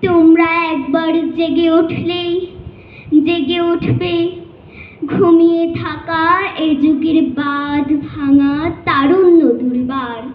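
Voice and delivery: impassioned, measured declamation with ringing phrases and long pauses; poem recitation. Acted. Student reciting to judges a poem rallying young protesters, impassioned declamation. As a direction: recite a rousing protest poem, line by deliberate line. আবৃত্তি করছি কবি.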